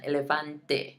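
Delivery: "Elefante" ending on a clear "teh"; final E sounded. Shown as a demonstration. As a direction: finish "Elefante" with an audible Spanish E. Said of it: "making sure you're saying that E at the end".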